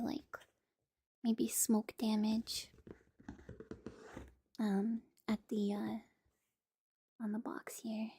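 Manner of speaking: soft ASMR whisper; hushed close unboxing. Real, not acted.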